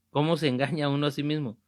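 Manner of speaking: "¿Cómo se engaña uno a sí mismo?" repeated fast at normal level; brisk follow-up repeat of "¿Cómo se engaña uno a sí mismo?". Shown as a demonstration. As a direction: rattle the question off again quickly. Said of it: "¿Y cómo se engaña uno a sí mismo?".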